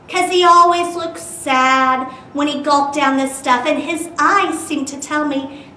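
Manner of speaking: lively storytime narration with bouncy rhyme; animated read-aloud voice; reading to children. A narrator's reading. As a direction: read it like a picture book to kids.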